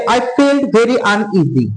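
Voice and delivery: slow reading aloud. Shown as a demonstration. Teacher reads text slowly.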